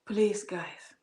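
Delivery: whispered please to the viewers. Real, not acted. Vlogger begging her viewers to be kind, whispered. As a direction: lean in and whisper it.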